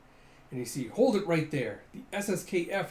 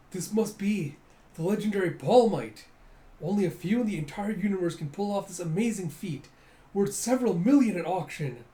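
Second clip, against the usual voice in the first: raised, louder announcer hype; hammed-up awe, pitched up; excited commentator; 4 semitones higher, 5 dB louder than usual. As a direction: announce an amazing feat to the crowd. Hopper commentates on amazing feat.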